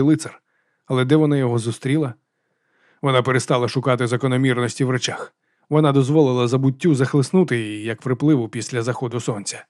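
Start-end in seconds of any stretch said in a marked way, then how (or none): none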